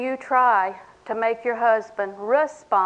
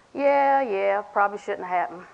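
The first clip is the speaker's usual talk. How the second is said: flat, no emotion; 3 dB quieter than usual. Retold or imitated. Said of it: "No emotion, no passion".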